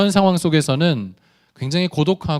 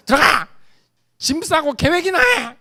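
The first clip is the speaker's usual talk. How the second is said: mock angry dad; 12 semitones higher, 4 dB louder than usual. Dad snaps at scared son.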